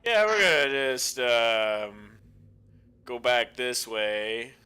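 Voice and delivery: slow, steady pilot announcement; calm captain over the intercom; pilot cockpit headset. Pretend. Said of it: "Even talking like a pilot".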